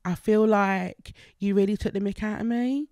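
lightly put-on Essex accent. Shown as a demonstration. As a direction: slip into an Essex voice. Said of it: "Essex, maybe?".

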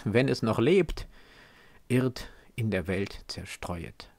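solemn, measured verse reading with deliberate pauses; poem recitation. Acted. Reader opens Goethe's Faust with its dedication poem, solemn recitation. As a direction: recite it as weighty verse, phrase by phrase.

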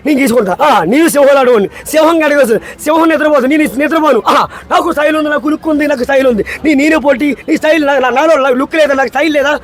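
swaggering, lightly voiced hero lines; Pawan Kalyan dialogue. Guest performs a star's swagger dialogue for the host, mock swagger. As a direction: strut through it with mock swagger. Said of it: "Pawan Kalyan".

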